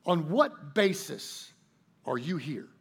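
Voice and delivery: drawn-out exasperated asking; mildly exasperated angel; frustrated, slow question. Acted. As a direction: press him slowly, out of patience. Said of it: "frustrated, finally the supervisor angel asks".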